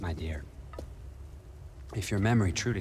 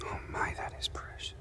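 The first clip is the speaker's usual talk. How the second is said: hushed, amused contempt; mocking whisper; 7 dB quieter than usual. Villain mocks the heroine's threat in a soft whisper. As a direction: breathe it out, mocking her threat.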